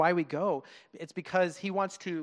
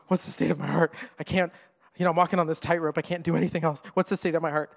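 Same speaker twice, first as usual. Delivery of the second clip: gasp, then fast, louder mock panic; anxious fretting; 5 dB louder, faster than usual. A worshipper mocking an over-anxious believer, fast and louder. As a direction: act out nervous self-doubt, hurried. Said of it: "not to be like".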